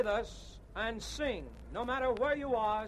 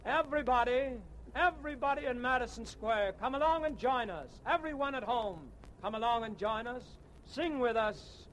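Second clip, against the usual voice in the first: calling out. Real, not acted. Song leader calling the crowd.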